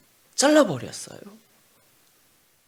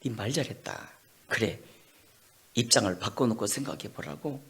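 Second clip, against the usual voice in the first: softer, lower calm reply; God's quiet answer; 4 semitones lower, 5 dB quieter than usual. Acted. God calmly turning Jonah's words back. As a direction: take his words back gently. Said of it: "하나님이 하시는 말씀".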